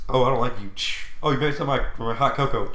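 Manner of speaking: petty villain, lightly voiced; a hint of a cartoon villain. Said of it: "Now you sound like a villain".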